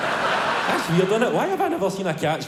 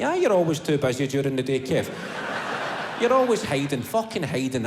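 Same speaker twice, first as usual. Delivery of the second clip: inner voice; 4 semitones lower than usual. Acted. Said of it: "that wee voice comes in".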